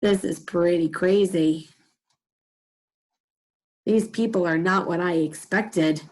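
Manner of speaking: low, slow, marvelling aside; imagined onlooker's voice. Acted. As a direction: take it in slowly, mildly amazed. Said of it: "might sound a little bit like".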